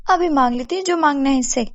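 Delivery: greedy, delighted neighbour. Acted. Babli demands silver from kadhai, high greedy voice. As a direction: marvel and plot with rising greed.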